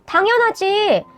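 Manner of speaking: understated acted outburst; sharp retort. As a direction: fire back with restrained anger. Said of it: "남자친구에게 쏘아붙였고".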